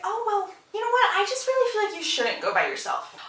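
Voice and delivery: high-pitched coy coaxing; mock sweet suggestion. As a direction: imitate a scheming mother's innocent suggestion. Mary scheming sweetly, acted quote.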